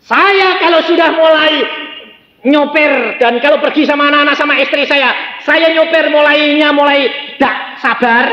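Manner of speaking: high, loud, ringing pulpit exhortation; loud fiery sermon delivery; preaching at full force. Acted. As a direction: proclaim it to the whole church. Preacher builds up his story.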